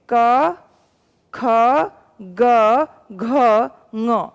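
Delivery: क, ख, ग, घ, ङ spaced apart, with a voiced buzz on ग and घ; consonants demonstrated. Shown as a demonstration. Teacher sounding out the consonant row to show voicing. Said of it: "तो प्रत्येक वर्ग को बोलेंगे हम".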